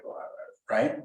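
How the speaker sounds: ordinary talk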